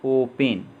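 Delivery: ओपन with a long, held ओ. Shown as a demonstration. Teacher giving an example of long O, drawn-out ओ in ओपन. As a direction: lengthen the first vowel of ओपन. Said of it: "लंबा उच्चारण होगा".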